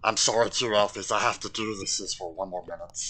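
creature voice, apologetic; Gollum. Acted. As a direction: put on a wretched little creature's voice. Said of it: "my Gollum accent".

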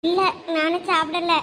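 slow, subdued after crying; tearful. Acted. Admitting to a friend she hasn't eaten, mildly tearful. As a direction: answer slowly, a touch tearful. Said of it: "எதுக்கு இப்ப நீ அழுதுகிட்டு இருக்க".

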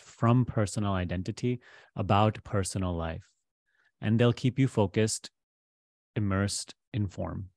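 measured guidance with long pauses; guided meditation. Real, not acted. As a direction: guide the listener gently into letting go, pausing between phrases.

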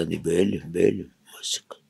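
low, hushed voice of a man in shock; stunned. Acted. Job before Pharaoh, too shocked to answer, stunned. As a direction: mumble it softly to yourself, stunned. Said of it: "הבהלם".

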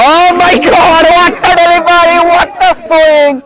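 frantic cricket commentary. Real, not acted. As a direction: stretch each word in awe. Commentator reacts to big hit. (উত্তেজিত ধারাভাষ্য)

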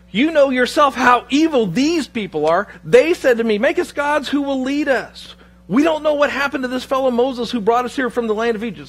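lightly acted nervous self-justification; defensive excuse. Aaron blaming the people to angry Moses, mildly defensive.

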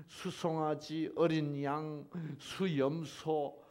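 declaimed scripture with weighted words; scripture reading. Acted. Preacher reads God's rebuke to the congregation, declaiming. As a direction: read the verse out slowly and emphatically.

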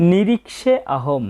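"নিরীক্ষে আহম" split into two slow words; slow model pronunciation. Shown as a demonstration. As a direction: stretch "নিরীক্ষে", then a separate "আহম".

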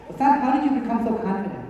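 lightly put-on questioner's voice, softly; mock a student asking the teacher; playful imitation of an admiring question; imitated questioner. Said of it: "That's exactly how they sounded".

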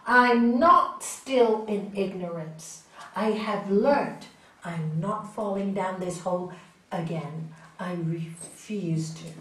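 firm, slow, determined; a touch of stubborn resolve; resolute refusal. Retold or imitated. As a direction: slowly insist you won't fall in. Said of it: "you go".

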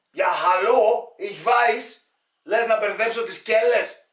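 high, loud, drawn-out opening; acted exasperated retort. Replying to a needless cellar warning, acted exasperated retort.

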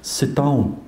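lightly voiced, softly delivered order; a hint of an intimidating footballer; Roy Keane. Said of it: "He's there on his own".

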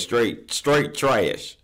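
a hint of a goofy drawled put-on voice; Bubba Dub voice. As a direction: stretch out straight trash in a silly character voice. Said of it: "In my Bubba Dub voice".

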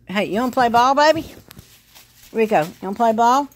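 high, loud, eager call to the puppy; talking to the dog. Real, not acted. Owner calling her puppy Rico to play, high and eager.

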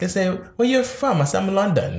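hammed-up, unconvincing London accent; fake London accent. Co-host retelling who asks his origins, fake London accent. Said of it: "didn't realize he was gonna talk like this".

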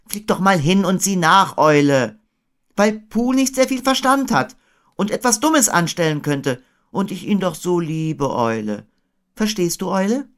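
put-on high, pleading boy voice; Christopher Robin. A narrator's reading. Boy sending Owl to check on Pooh, high-voiced.

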